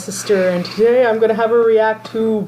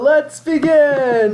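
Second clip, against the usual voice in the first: excited; 5 semitones higher, much slower than usual. Pretend. Opening the reaction video together.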